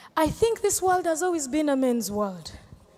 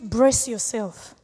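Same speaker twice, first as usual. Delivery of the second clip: slow warning; 4 semitones lower, much slower than usual. Real, not acted. Warning aspiring comedians.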